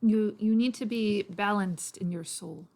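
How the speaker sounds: put-on lightly Irish-accented persuader. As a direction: explain patiently with a light Irish lilt. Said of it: "I'm guessing he's more Irish".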